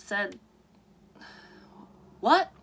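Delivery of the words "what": sudden high shrill-free squeak of surprise, much higher and louder; shocked what. Acted. Mom reading shocked at doctor's news, high startled question. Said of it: "said Mom".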